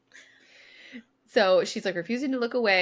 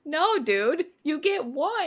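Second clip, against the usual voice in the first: exasperated refusal; 6 semitones higher, slower than usual. Retold or imitated. Kingfisher refusing her.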